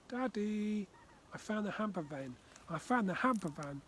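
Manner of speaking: put-on eager high child's voice calling Dad; bursting with the news; excited child. Child runs to tell Dad.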